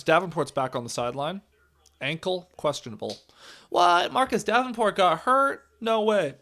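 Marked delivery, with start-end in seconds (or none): 3.7-6.4 a sudden what, then no way; surprised. Real, not acted. Hears a player got hurt.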